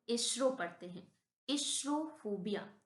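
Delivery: carefully pronounced "एस्ट्रो"; teacher modelling "एस्ट्रो"; pronunciation demo. Shown as a demonstration. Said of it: "इसे हम क्या पढ़ते हैं".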